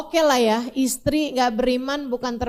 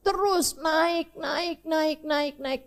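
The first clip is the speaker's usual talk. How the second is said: fading away; 5 dB quieter, slower than usual. Acted. Son climbing the mountain.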